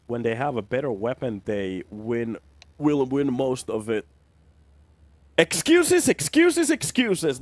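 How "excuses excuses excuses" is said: high, loud mocking sing-song. Real, not acted. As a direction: scoff at the excuses in a taunting lilt. Scoffing at a team's excuse.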